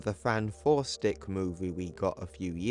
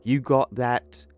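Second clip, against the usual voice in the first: loud, forceful father's telling-off; cross, raised voice; angry scolding; 6 dB louder than usual. Acted. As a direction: lay down the punishment hard. Furious father grounding his son.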